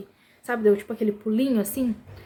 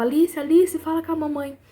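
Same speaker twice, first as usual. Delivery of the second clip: higher, urgent calling of a name; raised-voice retold plea; retold shouting; 5 semitones higher than usual. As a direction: imitate a boy crying out to his sister. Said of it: "É, gritava".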